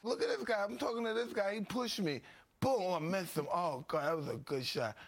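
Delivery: high excited commentary. Real, not acted. Watching himself on old footage.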